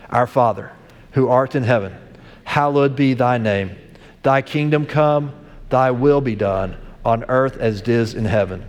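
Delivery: communal prayer. Acted. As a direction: lead the congregation in the Lord's Prayer. Leads the Lord's Prayer.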